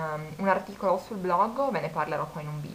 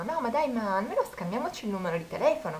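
higher mock coaxing; lightly voiced pushy request; a hint of a hopeful flirt; imitating the guy; 5 semitones higher than usual. Guy asking for her number.

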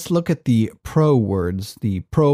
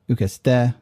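ukeste stressed on its last syllable, TE; final-syllable stress. Shown as a demonstration. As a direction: put the accent on the end of ukeste. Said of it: "have the accent on the ultima".

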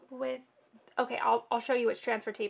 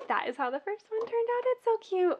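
high, loud excited squeal; thrilled with the result; 10 semitones higher, 7 dB louder than usual. Real, not acted. Excited reveal of finished piece.

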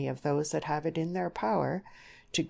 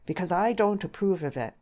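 firmly emphasised objection, a little raised; emphatic; 3 semitones higher, 4 dB louder than usual. A narrator's reading. Young suitor stating his objection to the parents, emphatic. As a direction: press the objection home. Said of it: "He therefore emphasized it more".

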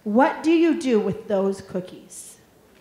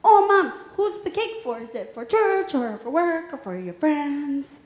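lightly voiced little boy asking; imitating her son again; toddler son; 2 semitones higher than usual. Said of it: "He said".

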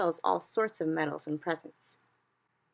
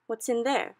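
the Queen asking; 7 semitones higher, 4 dB louder than usual. A narrator's reading. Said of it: "the Queen asked him".

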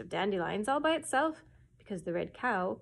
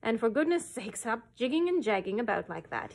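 louder, impatient royal scolding; irritable king; 4 dB louder than usual. Acted. A touch of an impatient king scolding the cow. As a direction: snap at the cow to hurry. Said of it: "he added irritably".

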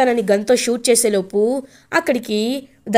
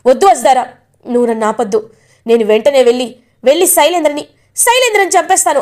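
furious vow; 3 semitones higher, 4 dB louder than usual. Acted. Rishi vows to kill Shailendra.

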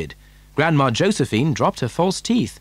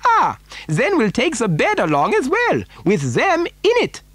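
higher, swooping eccentric factory owner's voice; animated storybook Mister Wonka; 13 semitones higher than usual. Acted. Factory owner explaining why he needs a child, animated. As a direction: relish it, pitch leaping on key words. Wonka solves the bed problem.

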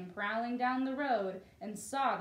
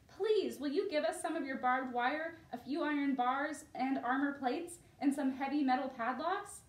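polite plea; 4 semitones higher than usual. Acted. Wolves ask rhinoceros politely.

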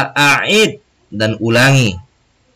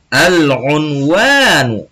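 slow model reading; 2 semitones higher, much slower than usual. Shown as a demonstration. Teacher models Arabic title word.

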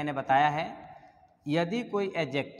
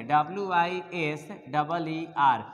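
slow letter-by-letter spelling of the wrong form "डब्ल्यू आई एस डबल ई आर"; wrong spelling spelled out; slower than usual. Shown as a demonstration. Teacher showing students the wrong spelling, slowly spelled out. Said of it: "ऐसा करना गलत होगा".

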